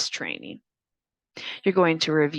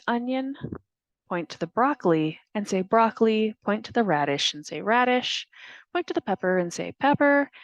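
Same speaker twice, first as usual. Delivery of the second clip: naming each picture; 4 semitones higher than usual. Shown as a demonstration. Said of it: "point and say".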